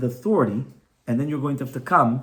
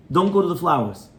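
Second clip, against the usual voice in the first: unhurried, firm no, without shouting; calm authority, no raised voice; a parent's steady warning; firm, not angry; 2 semitones higher, 4 dB louder than usual. Shown as a demonstration. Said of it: "not angry, no screaming, no hurrying the voice".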